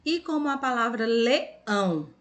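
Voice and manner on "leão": "leão" split slightly, with a strong "ão"; stress on final syllable. Shown as a demonstration. Teacher showing pupils the strong ending, stressed "ão" in "leão". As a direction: say "leão" leaning on "ão". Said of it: "como a gente lê também forte".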